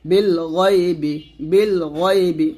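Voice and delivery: "গইবি" slowly, with a thick throaty gh; heavy ghain. Shown as a demonstration. Teacher repeating for learners, heavy gh in "গইবি". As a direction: thicken the first sound of "গইবি". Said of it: "গয়েনটা আমরা মোটা করব".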